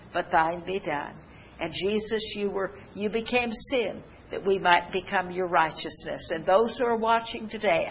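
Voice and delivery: earnest spoken prayer; praying. Acted. Preacher praying aloud for the watching congregation, earnest. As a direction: pray over the viewers, steady and sincere.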